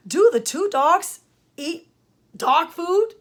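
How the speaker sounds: "food" lifted at the end as a question; slow questioning read, ending upward on "food"; question intonation. Shown as a demonstration. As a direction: ask slowly, letting the pitch climb on "food". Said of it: "My voice went up at the end".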